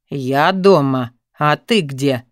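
put-on a stern boyfriend leaning on her; pressing male voice. A narrator's reading. Boyfriend on the phone, voiced low and pressing. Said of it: "с нажимом спросил он".

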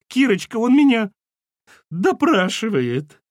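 loud, very high-pitched wail; wailing cry. Acted. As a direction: denounce him in a hysterical cry. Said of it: "возопила Валентина".

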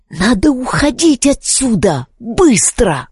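high, urgent little sprite voice. Acted. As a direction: hurry them, small and anxious. Nervous sprite urges leaving. (тонкий тревожный голос спрайта)

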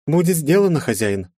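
high, crisp servant's report. Acted. Ruby reports to her master, high and crisp. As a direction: snap out the reply to the master. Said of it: "отрапортовала Руби".

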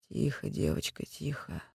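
low soothing whisper. A narrator's reading. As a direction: whisper gently into her ear. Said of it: "и прошептал над ухом".

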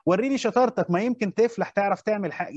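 mocking taunt, lightly put on; sarcastic mockery. Shown as a demonstration. Teacher mocking a student to show sarcasm, sarcastic taunt. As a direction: taunt him as if doubting he can manage. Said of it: "وكأني بستهزئ بيه، بسخر بيه".

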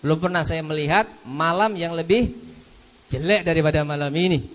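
mild Abu Bakar lament. Retold or imitated. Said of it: "Kata Abu Bakar".

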